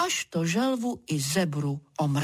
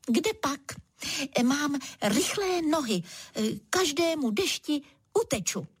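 higher, lightly voiced boastful zebra; 7 semitones higher than usual. Zebra bragging to the turtle, lightly voiced higher. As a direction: show off your fast legs, a touch proud.

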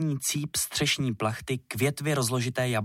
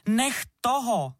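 high, slow shrieked command; shrieking; 12 semitones higher, 3 dB louder, slower than usual. A narrator's reading. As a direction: scream at him to stop. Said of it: "zaječela Verunka".

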